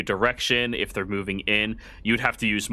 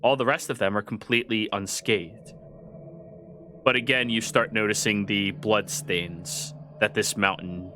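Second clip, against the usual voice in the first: scene setting narration. A narrator's reading. GM describes the ruined halls.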